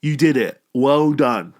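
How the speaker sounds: a playful accusing "thanks a lot"; mock grumpy surrender. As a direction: grudgingly give in, then scold him sarcastically. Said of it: "I was like".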